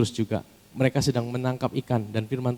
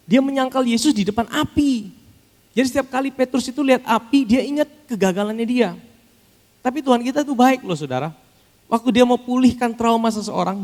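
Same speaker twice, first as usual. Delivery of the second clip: high, loud preacher's cry; full-force preaching; 12 semitones higher, 5 dB louder than usual. Acted. (khotbah berapi-api, tinggi dan keras)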